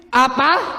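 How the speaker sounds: dramatic shocked "Apa?" like a soap; overwrought soap opera gasps. Acted. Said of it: "Kayak sinetron".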